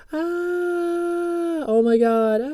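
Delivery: high, drawn-out pretend scream; mock scare. Teacher jokingly scaring his beginners, mock screaming. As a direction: wail a hammed-up oh my god. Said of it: "I'm gonna scare you".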